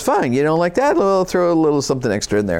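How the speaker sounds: fast, sarcastic threat; tossing in a punishment with a smirk; a hint of an exasperated God; mock God annoyed. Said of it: "He goes".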